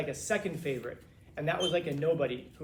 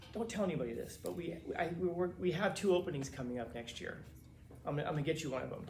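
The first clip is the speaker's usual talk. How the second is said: softer, hushed secret; softer confidential aside, quick at the end; confiding; 5 dB quieter than usual. Retold or imitated.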